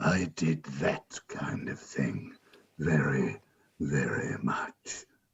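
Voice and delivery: low, slow, rumbling dragon voice.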